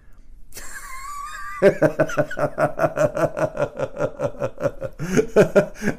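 long high real laugh. Real, not acted. Dad laughing at his daughter's grumpy curse, real laugh. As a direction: laugh hard at your own story.

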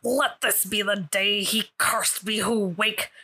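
slow, lightly voiced sea captain, whispering the last word; a hint of Davy Jones, slow and solemn; Davy Jones impression. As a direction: intone it like a cursed pirate captain. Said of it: "Give me your best Davy Jones".

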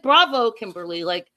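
applaud her like a cheerleader; cheering. Retold or imitated. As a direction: enthusiastic cheer. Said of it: "And I was like".

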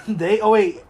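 giggling, flustered pretend reading; laughing mock confusion. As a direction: stumble through names while laughing. Mocking pronoun name-tag confusion.

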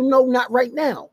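slow, deliberate refusal; slow firm no. Retold or imitated. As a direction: draw out the no to shut it down.

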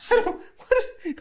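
very high, squeaky panicked character voice; hammed-up panic. Game master plays Dee Dee fleeing upstairs, squealing in panic. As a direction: squeal it in mock alarm, stumbling over words.

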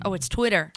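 Twitter with a short "i", TWIT-er; mock realization on Twitter, first vowel as in "twit"; corrected pronunciation. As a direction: say Twitter properly, as if just learning it. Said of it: "I've been saying it wrong".

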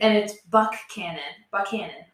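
Buckhannon with a hard K; local pronunciation. Shown as a demonstration. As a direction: say Buckhannon as BUCK-cannon, K sound clear. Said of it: "but we have a K".

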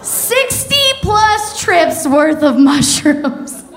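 drawn out word by word; slow punchline. Acted. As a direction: let each word land slowly. Punchline stretched out slowly.

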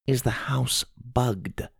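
hushed, slow, secretive question. A narrator's reading. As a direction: ask it so no spy can hear. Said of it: "Grandma lowered her voice".

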